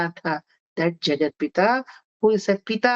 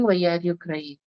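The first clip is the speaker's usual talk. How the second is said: tender slow mother; 3 semitones lower, much slower than usual. Retold or imitated. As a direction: gently draw the child out, very slowly. Mother asks crying son. (ಮಗನನ್ನು ಸಮಾಧಾನಿಸುತ್ತಾ ನಿಧಾನವಾಗಿ ಮೃದುವಾಗಿ ಕೇಳುವ ತಾಯಿ)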